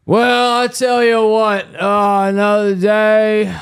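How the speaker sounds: high, slow, grand heroic proclamation; over-the-top hero opening; hammed-up hero. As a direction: announce it like a superhero.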